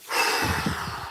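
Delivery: quiet breathy exhale; long sigh. Real, not acted. Streamer waiting on free throws, tense sigh. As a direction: let out a long soft breath.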